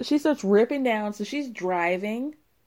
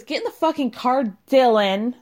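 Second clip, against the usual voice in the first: mock yelling order; 3 semitones higher, 6 dB louder than usual. Retold girlfriend ordering boyfriend.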